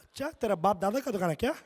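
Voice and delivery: fast, laughing scolding in Urdu; rapid Urdu auntie. Retold or imitated. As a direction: fire it off like an irritated auntie. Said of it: "she would start speaking Urdu".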